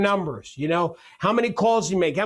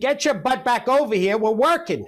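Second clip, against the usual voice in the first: mock exasperated scolding; 3 semitones higher than usual. Mock scolding of absent co-host.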